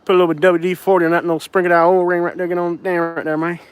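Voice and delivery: put-on fast mumbly good-ol'-boy rattle; Boomhauer. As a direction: rattle it off like a cartoon Texan neighbour. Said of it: "I can talk like, like Boomhauer".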